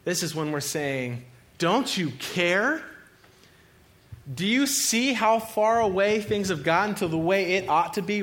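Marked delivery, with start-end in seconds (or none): 1.6-8.2 raised, louder pleading with God; mildly frantic, high appeal; acted panic. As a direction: cry out as if panicking. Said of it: "begin to panic".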